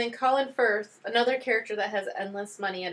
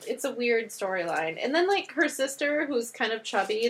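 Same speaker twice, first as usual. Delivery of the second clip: usual speaking voice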